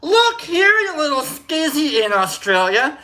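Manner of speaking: very high, loud mock scolding, slowing at the end; hammed-up fury, stretched slow; mock angry insult. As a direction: drag the insult out for comic effect. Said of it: "you can say things".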